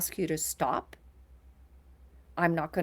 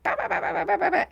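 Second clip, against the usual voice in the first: mock meltdown babble; 12 semitones higher, 5 dB louder, much faster than usual. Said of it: "When they're like".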